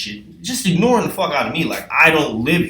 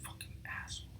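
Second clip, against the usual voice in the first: unvoiced whisper under breath; whispered curse; 25 dB quieter than usual. Cursing George for his rude note, whispered. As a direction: hiss it so George can't hear.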